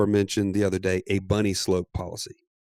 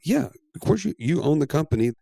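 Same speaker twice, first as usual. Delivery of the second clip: amused reassurance; 6 semitones higher than usual. Retold or imitated. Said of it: "I'm like".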